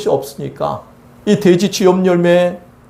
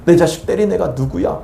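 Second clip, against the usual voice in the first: God demanding; 2 semitones lower than usual. Acted. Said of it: "하면서 내 대신 싸우신다고요".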